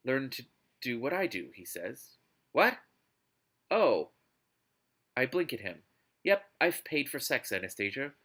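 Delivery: dramatic novel reading; expressive audiobook narration; story narration. Acted. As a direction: read it out like an overwrought romance audiobook. Reads a novel aloud.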